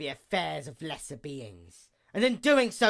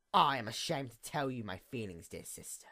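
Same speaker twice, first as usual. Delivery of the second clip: whispered; 5 semitones lower, 6 dB quieter than usual. Acted. Whispered address to sister.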